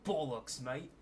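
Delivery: mock British accent. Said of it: "Lucy sounds kind of like this".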